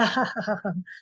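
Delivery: acted laugh at a friend; staged "ha ha ha" laugh; mock laughter. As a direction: put on a short scornful king's laugh. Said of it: "And he was laughing".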